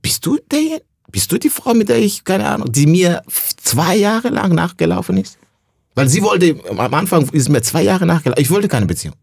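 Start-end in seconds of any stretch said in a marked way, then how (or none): 0.0-5.4 much higher, stunned and incredulous; disbelieving self-quote. Retold or imitated. Asking his ex if she's the same woman, much higher incredulous voice. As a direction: squeak it out like you can't believe who you see. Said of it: "Ich denk mal".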